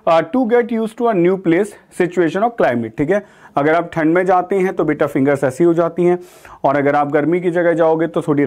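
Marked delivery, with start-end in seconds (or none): 0.2-3.0 very slow repeat of the meaning; slow definition read. Shown as a demonstration. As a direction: read the meaning again slowly for students. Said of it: "teacher repeats definition". (परिभाषा धीरे-धीरे दोहराना)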